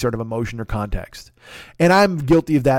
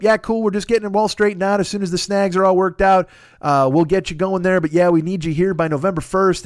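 higher, easygoing guy stringing you along; lightly voiced breezy brush-off; breezy reassurance; 5 semitones higher than usual. The contact texts back that it's getting straightened out, breezy.

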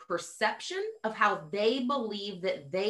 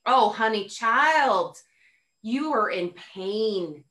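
tender pity; 3 dB louder, much slower than usual. Retold or imitated. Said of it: "I look and I was like".

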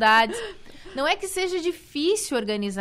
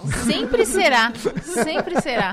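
laughing; 5 dB louder, much slower than usual. Real, not acted. Joking about the former first lady.

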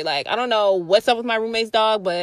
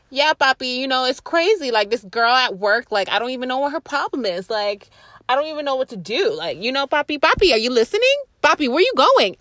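quoting the lady; 2 semitones higher than usual. Retold or imitated. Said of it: "She was like".

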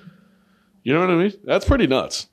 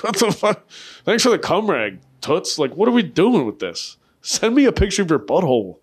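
higher-pitched, lightly acted exasperation; mock indignation; 6 semitones higher than usual. Soldier complaining to his girlfriend about perfume, mock indignant. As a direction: play at being put out by a useless gift.

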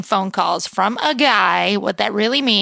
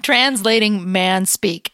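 drawn out, slow and deliberate; slow dramatic read; much slower than usual. Shown as a demonstration. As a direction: savor each word slowly. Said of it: "Can you please say that again?".

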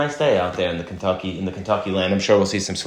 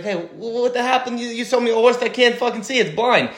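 outraged buyer; 14 semitones higher than usual. Retold or imitated. Angry buyer complains in joke.

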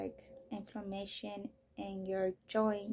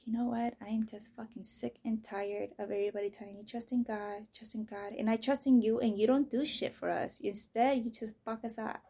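angry at God. Retold or imitated. Venting rage at God over everyone saying trust him. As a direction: vent your fury upward, voice rising.

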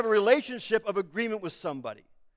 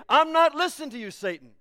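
rising up defiantly; 5 semitones higher than usual. Pretend. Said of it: "rise up and say".

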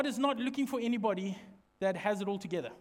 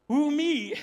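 higher, loud incredulous question; mock disbelief; 4 semitones higher, 6 dB louder than usual. Shown as a demonstration. Preacher demonstrating title to tell a neighbour, mock disbelief. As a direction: push the astonishment up in pitch.

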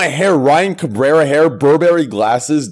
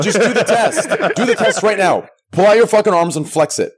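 laughing demand; 5 semitones higher than usual. Real, not acted. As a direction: giggle out the order.

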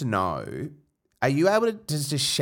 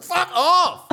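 retold snap; 4 dB louder than usual. Snapping at guy at festival.

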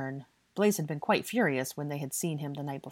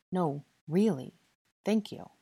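earnest; 3 semitones higher than usual. A narrator's reading. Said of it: "he said earnestly".

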